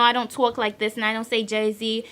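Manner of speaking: lightly put-on North Jersey accent; mock a typical Jersey accent; a touch of exaggerated Jersey accent. Shown as a demonstration. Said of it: "Jersey accent".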